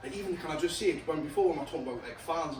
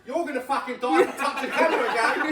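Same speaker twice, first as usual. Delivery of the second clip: raised, laughing warning; hammed-up exasperated threat; mock threat; 5 semitones higher, 4 dB louder than usual. Warning someone off the camera, mock threat.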